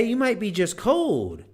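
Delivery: high, loud mock shiver; mock shivering cold. Shown as a demonstration. Showing the listener a cold shiver. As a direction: act out being cold. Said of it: "If you're doing this".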